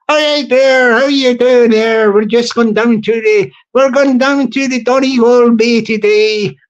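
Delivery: playful put-on Irish accent; mock Irish accent. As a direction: ham up a cheery Irish local, lightly. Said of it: "Stevie Boy can have a bit of the Irish".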